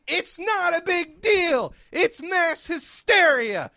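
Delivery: imitating someone downplaying the risk, slowly; mock brushing off. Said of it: "lying through their teeth and just saying".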